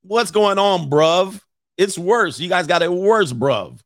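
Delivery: British lad calling out, hammed-up; mock British accent. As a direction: put on a playful British street accent. Mock British slang after British women.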